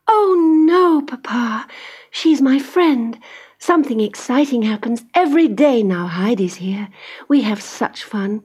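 put-on high, eager pleading girl; pleading young girl. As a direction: beg papa to keep her friend. Clara pleads.

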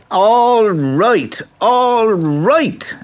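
high, loud giving-up squeal; spluttering leprechaun. A narrator's reading. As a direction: splutter in defeat. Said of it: "the leprechaun spluttered".

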